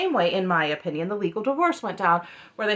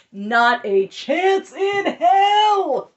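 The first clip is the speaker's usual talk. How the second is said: loud, very slow, high cry of outrage; outraged shout; 9 semitones higher, 7 dB louder, much slower than usual. Real, not acted. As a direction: drag out "Not a chance in hell" as a shouted, cracking outburst. Outraged reaction, then retracts.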